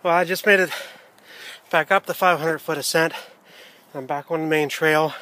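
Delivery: winded after the steep climb; panting between phrases; out of breath. Real, not acted. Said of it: "Can't catch my breath here a little bit".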